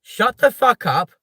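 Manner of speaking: hammed-up yell of an angry mum, drawn out; mock mum's angry yell. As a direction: play the furious old mum yelling at the kids. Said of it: "the old dear's going".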